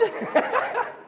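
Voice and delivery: high burst of laughter; real amused laugh. Real, not acted. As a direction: laugh at your own punchline. Laughs at his own joke.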